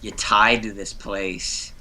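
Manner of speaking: put-on slow mystic old lady voice; foul mouthed granny. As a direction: drag it out like a spooky seer. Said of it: "She's my old lady voice from Brooklyn".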